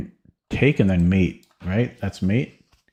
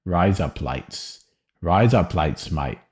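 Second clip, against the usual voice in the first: thick Australian accent; 2 semitones lower, slower than usual. Shown as a demonstration. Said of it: "very thick Australian accent".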